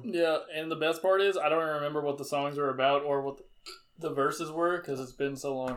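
talking through hiccups; hiccuping mid-sentence. Real, not acted. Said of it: "I have the hiccups".

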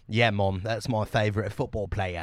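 put-on British teen answering his mom; light British lad accent, fairly quiet. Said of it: "That character I was playing was a British person".

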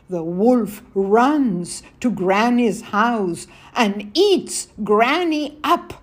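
put-on reading aloud to children; story narration. A narrator's reading. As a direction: tell the fairy tale gently to kids.

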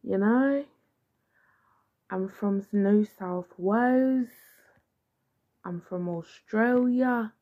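amateur, slightly loud Australian accent. Shown as a demonstration. Podcaster trying Australian for listeners, hesitant mock Australian accent. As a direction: try on an Australian accent, drawing out key words. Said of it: "Can I do an Australian accent".

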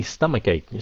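stomachache with a hard k in the middle and end; model word. Shown as a demonstration. Teacher reading a requested word. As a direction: say stomachache with k sounds. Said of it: "Xin chỉ đọc đi".

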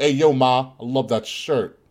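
put-on casual New York street accent. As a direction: toss it off like a New York guy. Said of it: "that's such a great New York comp".

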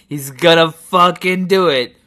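imitating a thrilled viewer, loud and high; mounting excitement. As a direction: call it out, sure it's about to happen. Acts viewer's suspense building.

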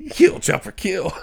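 calling a dog to attack, half-yelled; mock shout of a neighbour; imitating a woman yelling for her dog. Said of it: "It's like".

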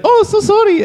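put-on high-pitched caricature of an Asian accent; mock Asian accent. Retelling the woman who walked in, mock Asian accent. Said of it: "She didn't have an accent".

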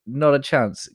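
high, loud disbelief; a startled man protesting he can't possibly; incredulous Moses. Retold or imitated. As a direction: squeak out a stunned refusal. Moses balks at God's call.

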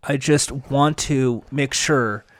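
low, halting earnest appeal; mock solemn. Mock solemn plea over comedy bit.

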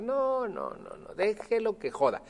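emphatic dismissive no. Retold or imitated. Urging crying cashier to let go.

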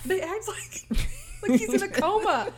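verontwaardigd, hoog en traag; indignant. Real, not acted. Indignant about Mateus.

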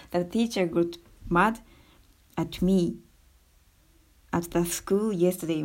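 slow English sentence read out; english example sentence. Shown as a demonstration. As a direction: say "The teacher got mad at me at the school yesterday" slowly, word by word. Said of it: "英語だと". (ゆっくり英語で例文を読む)

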